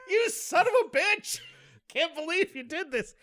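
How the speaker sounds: high, loud, indignant cursing; retold outrage. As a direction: curse out a prankster, acted out for laughs. Retold fury at the prankster.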